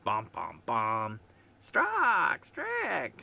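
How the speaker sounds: lightly voiced old man; a hint of a creaky elder. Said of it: "You're gonna have the old man voice now".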